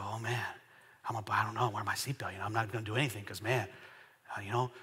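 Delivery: low, very soft, dejected mumble; hammed-up defeated driver; mopey giving up. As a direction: mumble low like someone who won't even try.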